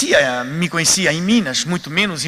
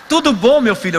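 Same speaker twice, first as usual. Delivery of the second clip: higher, louder fatherly greeting; lightly voiced gentle Chico; kind old medium; 4 semitones higher, 4 dB louder than usual. Chico greeting the praying visitor, higher fatherly voice.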